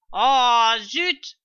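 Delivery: drawn-out, high, loud oh; loud exclamation. A narrator's reading. Servant learning the tail is lost, exclaiming loudly. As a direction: cry out in disappointment.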